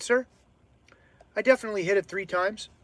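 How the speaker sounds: gently deferential, trying not to provoke; de-escalating, calm, submissive. Retold or imitated. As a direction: re-enact calming down a customer. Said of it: "I was using my de-escalate voice".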